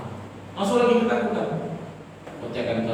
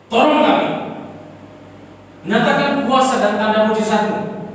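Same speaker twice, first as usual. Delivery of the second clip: raised, pleading cry to God; desperate prayer, higher and louder; 11 semitones higher, 5 dB louder than usual. Retold or imitated. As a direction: beg God for help, voice lifted. Retold desperate prayer on motorbike.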